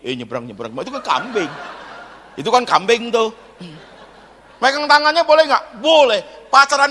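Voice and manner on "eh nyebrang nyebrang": herding like a goat. Retold or imitated. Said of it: "kita giniin".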